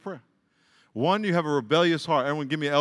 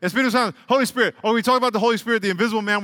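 raised preaching; 5 semitones higher, 5 dB louder, faster than usual. Real, not acted. Preacher lifts voice.

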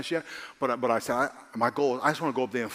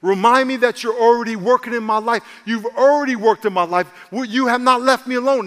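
earnest prayer; 7 semitones higher, 8 dB louder than usual. Shown as a demonstration. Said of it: "ask yourself".

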